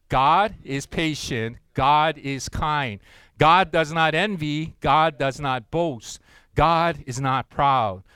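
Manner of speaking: slow, measured reading, rising toward the end; slow group recitation. Acted. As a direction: read it slowly, building on the always lines. Reading scripture with God replacing love.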